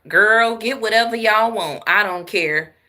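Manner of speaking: retold "I don't care" attitude; carefree classmate. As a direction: imitate a generous friend waving it off. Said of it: "She was like".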